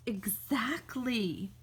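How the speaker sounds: slow, whispered agreement; slow hushed exactly; dry whisper. Acted. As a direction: whisper it slowly and pointedly. Character agrees dryly.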